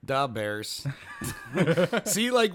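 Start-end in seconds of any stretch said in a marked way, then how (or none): 0.0-0.9 Saturday Night Live-style Chicago accent. Shown as a demonstration. Host echoing a sketch show, Chicago accent. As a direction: say it like a Chicago superfan. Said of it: "they do accents on Saturday Night Live".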